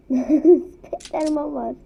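drawn-out laughing Spiderman. Real, not acted. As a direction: laugh through the slow words. Laughing about Spiderman player.

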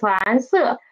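蓝色 with 色 falling from the top; correct tones. Shown as a demonstration. Teacher repeats correct 蓝色 for students, fall from high. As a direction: rise on 蓝, drop from high on 色. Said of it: "it's falling down from high".

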